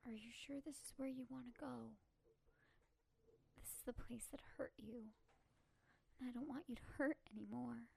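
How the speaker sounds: tender apology. Acted. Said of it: "I look the zombie kid in the eye, and I say".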